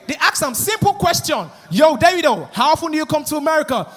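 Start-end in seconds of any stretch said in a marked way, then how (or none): 1.7-3.9 quick mock American host accent; hyped American interviewer voice. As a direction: fire a question in imitated American. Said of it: "So the interviewer was like".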